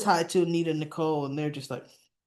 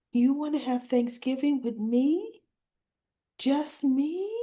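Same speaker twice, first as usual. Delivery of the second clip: smiling disbelief; 6 semitones higher than usual. Retold or imitated. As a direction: imitate a daughter's hopeful, smiling surprise. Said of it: "she looked at him and she smiled".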